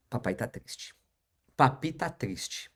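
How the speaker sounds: put-on hushed sad reply to a little girl; sad whisper. His reply to his daughter. (sussurro triste para a filha)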